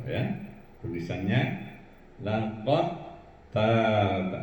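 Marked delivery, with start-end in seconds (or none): 2.2-4.3 "lakot tab" with dal merged into ta; merged idgham reading. Shown as a demonstration. Teacher reading out the written example, "lakot tab" merged and lengthened. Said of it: "Itu contoh bacaannya".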